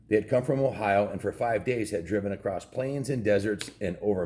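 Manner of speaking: steady storybook reading voice; story narration. A narrator's reading. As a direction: read it like a bedtime chapter. Reads chapter aloud to kids.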